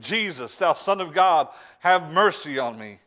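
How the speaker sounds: loud, slow cry for mercy; cried plea. Retold or imitated. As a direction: call out to God, begging. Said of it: "and he cried".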